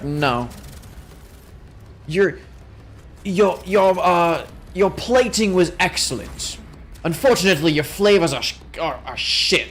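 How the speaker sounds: put-on light British accent, judge gently letting a baker down; mock British judge accent. Streamer mimics Bake Off judge's verdict, mock British accent. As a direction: play a politely disappointed British judge. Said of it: "don't comment about that British accent".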